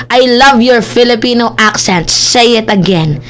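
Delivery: mock Filipino-accented English, drawn out; Mike Abe. Vlogger mimicking a man's English, mock Filipino accent. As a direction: put on a heavy Filipino accent, teasing. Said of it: "si Mike Abe kasi pag nagsasalita".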